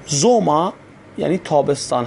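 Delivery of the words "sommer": زوما ending in an open "a", no r; final R as A. Shown as a demonstration. Teacher showing German learners a rule, زوما ending in "a".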